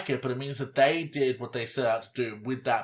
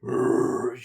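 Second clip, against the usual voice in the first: death metal growl; 3 dB louder than usual. Shown as a demonstration. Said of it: "Like, just really low, like".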